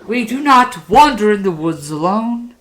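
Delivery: lightly hammed-up storyteller delivering a lesson; measured address to young listeners, key words punched; puppeteer's moral.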